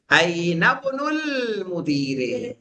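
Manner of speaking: slow, drawn-out Arabic phrase; slow Arabic reading. Shown as a demonstration. Teacher reading the example slowly to students. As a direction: read it out slowly for the class to copy. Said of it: "الف پڑھا جا رہا ہے کہ نہیں".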